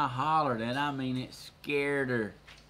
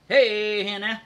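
loud, high call to a dog; raised-voice "come here" to a pet; 6 semitones higher, 9 dB louder, slower than usual. Real, not acted. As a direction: call the dog sharply back to you. Calling to the dog.

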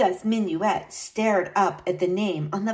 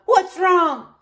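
loud, high gruff demand; gruff shout; 8 semitones higher, 7 dB louder than usual. A narrator's reading. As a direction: bark the question. Horace gruff question.

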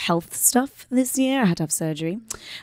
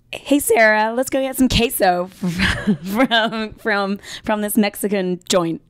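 lightly done Texan drawl, laughing; a hint of Texan, breaking into laughs; Texan accent; 2 semitones higher, slower than usual. Put on the spot by her co-host, half-hearted Texan accent. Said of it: "Do your best Texan accent".

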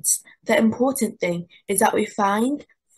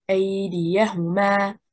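"أيديهما" with stress on the first and last beats, as if unfinished. Shown as a demonstration. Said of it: "stress on the first and last حركة".

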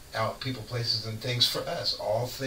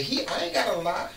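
bold mock quote; 10 semitones higher than usual. Acting out God's bold reply.

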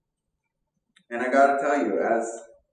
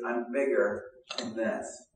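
calm assurance; 4 dB quieter, slower than usual. Retold or imitated. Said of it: "and Jesus says".

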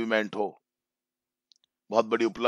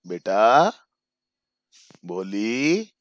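loving call; much slower than usual. Shown as a demonstration. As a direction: call the child's name with affection. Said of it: "बड़ा प्यार से बोला जाए". ("भोली" प्यार से, धीरे से पुकारो)

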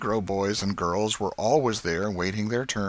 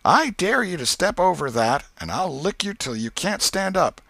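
high, louder schoolboy dare; daring boy; 8 semitones higher, 4 dB louder than usual. Acted. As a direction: challenge him across the line. Tom dares the new boy.

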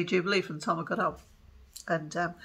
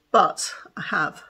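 whisper; 5 dB louder, slower than usual. Real, not acted. Showing off the finished doll.

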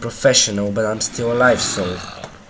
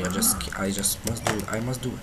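guilty whisper; 3 semitones lower, 6 dB quieter, faster than usual. Real, not acted. Apologizing to cow he kills.

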